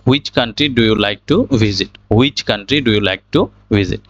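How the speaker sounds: "which" said "hu-ich", slowly; slow question with h sounded in "which"; wrong pronunciation. Shown as a demonstration. Teacher reads the question the mistaken way, "which" as "hwich". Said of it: "আমরা এখানে ভুল উচ্চারণ করেছি".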